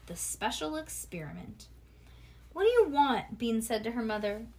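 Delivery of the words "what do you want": loud, higher-pitched impatient demand; rude child. A narrator's reading. Bean answers her mother's call, rude and loud. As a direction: throw it rudely at a parent. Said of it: "That meant Bean had been rude".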